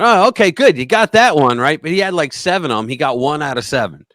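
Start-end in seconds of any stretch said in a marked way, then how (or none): 0.0-1.8 mock-approving trooper. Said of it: "And he went".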